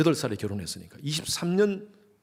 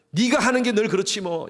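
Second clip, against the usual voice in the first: contemptuous jab; 7 semitones higher than usual. Acted. Pastor quoting the worst words a spouse hears, sneering. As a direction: spit out 네가 with scorn, falling at the end.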